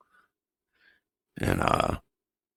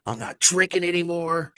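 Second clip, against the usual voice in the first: retold cry, much higher and louder; desperate outburst; 11 semitones higher, 3 dB louder than usual. Telling his wife he is in therapy and sober, high desperate shout. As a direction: plead in exasperation at the top of the voice. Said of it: "I'm like".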